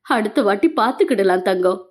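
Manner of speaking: low, soothing reassurance; consoling. Acted. Veeran comforts Meenal about missed exams, low and consoling. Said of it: "தெருதலாக பேசினான்".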